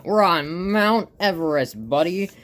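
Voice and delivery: high, loud cartoon excitement; gleeful hype. Stickmon launches his buddy down Everest, high loud glee. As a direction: crow it, dragging out the launch words.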